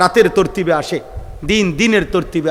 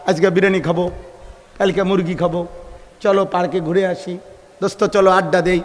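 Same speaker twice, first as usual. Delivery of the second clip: offhand mimicry; 6 dB quieter than usual. Mimicking idle people's everyday chat.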